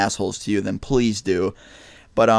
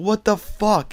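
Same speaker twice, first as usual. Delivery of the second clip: retold scream; 10 semitones higher, much slower than usual. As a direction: imitate your own high-pitched outraged yell. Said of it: "I was screaming".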